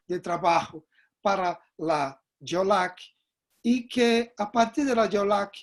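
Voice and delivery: Spanish with a Brazilian Portuguese accent; broken portunhol, Portuguese accent; Portuguese-Spanish mix. Real, not acted. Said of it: "muito malo portunhol".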